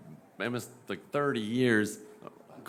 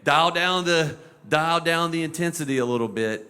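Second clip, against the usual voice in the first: condescending; 6 semitones higher, 6 dB louder than usual. Retold or imitated. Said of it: "moms and dads that you're like".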